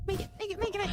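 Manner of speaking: willing himself to make it; pleading urgently. Real, not acted. Urging himself to reach ship.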